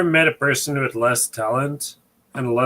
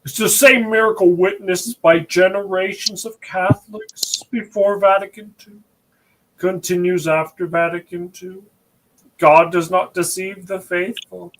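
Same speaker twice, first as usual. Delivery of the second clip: mock pious reading; 3 semitones higher than usual. Shown as a demonstration. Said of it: "you gotta read it really slow, without accent".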